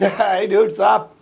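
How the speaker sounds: cool casual hey dude, sup; stylish sup. Shown as a demonstration. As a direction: say it with swagger, like a cool kid. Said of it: "इसे style में बोलना है".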